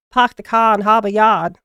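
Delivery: put-on a light, quick Boston accent with dropped r's. Showing a friend her Boston attempt, a light Boston accent. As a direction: toss off a mild Boston impression, r's dropped. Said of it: "let me do the, like, the Boston one".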